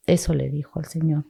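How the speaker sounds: usual speaking voice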